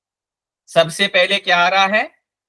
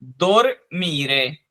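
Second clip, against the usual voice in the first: slow syllable reading; 3 semitones lower, slower than usual. Shown as a demonstration. Teacher sounding out the word for the class, slowly. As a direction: slowly split दोर and मी apart. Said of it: "तो ये हो गया".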